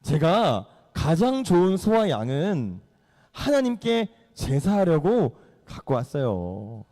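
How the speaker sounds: slow, drawn-out acted justification; hammed-up pious excuse; glib excuse. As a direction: stretch each phrase as a smooth-talking king. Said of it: "얘가 기가 막히게 말을 또 잘해요".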